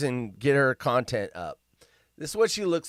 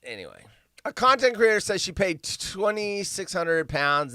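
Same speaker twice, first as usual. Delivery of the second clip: usual speaking voice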